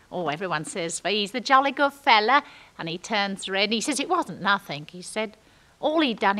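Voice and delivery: ordinary delivery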